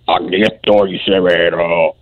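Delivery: deep croaking devil toad; low, slow evil croak. Acted. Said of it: "Tiene, tiene voz de sapo".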